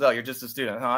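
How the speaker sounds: a hint of a smug rocker looking down on a kid; half-hearted imitation of a patronising musician; condescending. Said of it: "but condescendingly goes".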